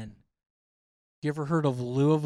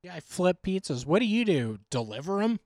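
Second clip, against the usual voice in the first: mocking; 3 semitones higher than usual. Real, not acted. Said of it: "Now you're just mocking me".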